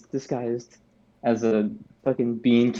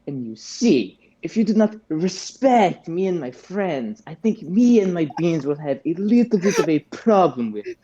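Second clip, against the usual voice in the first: lightly higher, grand villain voice; lightly voiced Garbanzo threatening the kid; Garbanzo threat; 4 semitones higher than usual. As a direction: menace him with polite smugness. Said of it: "I'm gonna go".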